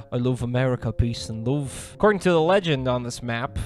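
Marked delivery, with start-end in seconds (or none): 0.1-1.9 lightly voiced Liverpool accent; a musician. Vlogger reads a star's caption, mock Liverpool accent. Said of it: "All the caption reads is".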